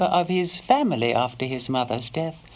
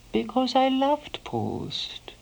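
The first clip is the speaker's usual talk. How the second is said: tender confession; 7 semitones higher, slower than usual. Real, not acted.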